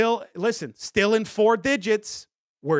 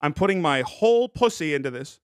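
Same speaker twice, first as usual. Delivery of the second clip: put-on his old way of talking, barely changed; old catchphrase voice; 3 semitones lower than usual. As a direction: slip back into the old voice. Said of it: "Remember, I used to talk like that?".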